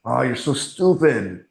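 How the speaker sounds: slow, exasperated self-scolding; mock self-berating yell. Man to his mirror over mistakes, mildly berating. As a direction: imitate berating yourself, without real shouting. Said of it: "I'm yelling it at the mirror".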